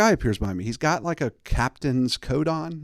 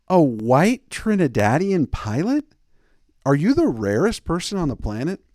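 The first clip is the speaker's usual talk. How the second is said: incredulous; 4 semitones higher, 4 dB louder than usual. Retold or imitated. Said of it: "And I'm like".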